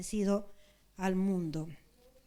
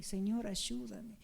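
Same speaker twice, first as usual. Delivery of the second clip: quiet prayer; 6 dB quieter, slower than usual. Acted.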